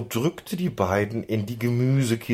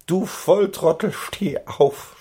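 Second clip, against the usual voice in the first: high, louder strained protest; groaning complaint; 11 semitones higher, 4 dB louder than usual. A narrator's reading. Squashed pony groaning at the friend lying on him, strained. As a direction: groan it indignantly from underneath. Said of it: "stöhnte sein Freund".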